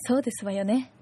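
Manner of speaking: a hint of a posh lady, lightly done; haughty rich girl japanese. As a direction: play a genteel rich lady. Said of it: "奥様方の話ね".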